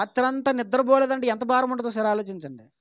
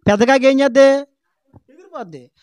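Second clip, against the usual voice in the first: preaching punch; 5 semitones higher, 13 dB louder than usual. Real, not acted. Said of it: "preaching punchline".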